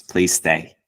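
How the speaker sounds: earnest plea to stay; pleading. Retold or imitated. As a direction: beg the guest to stay. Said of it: "Maulana is pleading with him".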